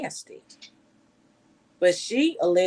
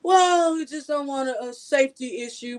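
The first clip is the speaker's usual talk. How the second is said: mock official excuse; 3 semitones higher than usual. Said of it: "They're not gonna say it like that".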